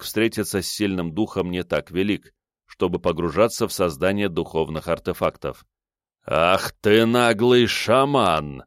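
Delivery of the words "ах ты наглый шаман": exclaiming. Acted. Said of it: "воскликнул знакомый мне мужской голос".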